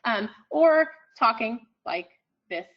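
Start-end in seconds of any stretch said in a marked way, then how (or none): 1.2-2.7 monotone list prosody. Shown as a demonstration. Lecturer demonstrating list prosody to the room, monotone and evenly spaced. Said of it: "a monotone, uh, regular, um, type prosody".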